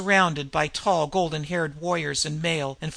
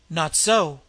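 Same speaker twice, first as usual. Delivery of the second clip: cried; 5 dB louder than usual. Acted. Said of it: "cried an older man".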